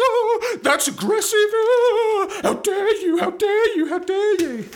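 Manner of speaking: very high, whining mock outrage; mock whiny victim. Mocking Israel as a whining bully, high-pitched mock outrage. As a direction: squeal it like a bully playing the victim.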